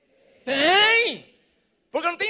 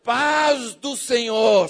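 "Paz do Senhor" drawn out slowly, louder; "Paz do Senhor" dito devagar e cheio; slow greeting; 4 semitones lower, 4 dB louder, much slower than usual. Shown as a demonstration. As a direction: savour each word of Paz do Senhor. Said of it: "Fala assim ... devagar".

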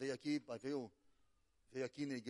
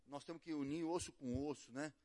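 gentle counsel; 3 semitones lower, 7 dB quieter than usual. Retold or imitated. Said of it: "eu falei pra ele".

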